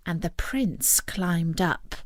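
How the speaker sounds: plain reading voice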